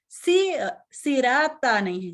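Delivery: the mistaken light सिराता; wrong light sirata. Shown as a demonstration. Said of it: "सिराता का मतलब हो गया".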